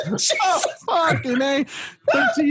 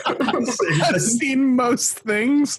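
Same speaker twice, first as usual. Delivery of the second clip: laughing; much slower than usual. Retold or imitated.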